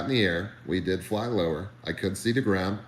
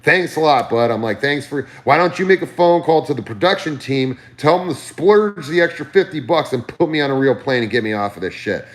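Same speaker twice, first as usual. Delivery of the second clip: loud, higher, exasperated retort; retold sarcastic outburst; 4 semitones higher, 6 dB louder than usual. Nervous flyer telling his manager to pay up, loudly exasperated. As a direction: fire it back loudly, fed up.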